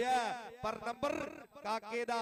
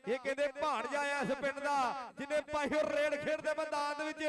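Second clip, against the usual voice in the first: frantic rural sports commentary. Acted. Live kabaddi commentary.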